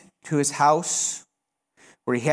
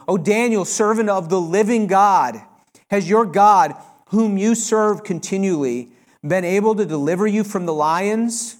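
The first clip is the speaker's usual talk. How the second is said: louder, higher anguished calling out; cry of anguish; 3 semitones higher, 4 dB louder than usual. Acted. The king calls to Daniel in the den, anguished cry. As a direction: call down into the den, desperate. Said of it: "He cried out in a tone of anguish".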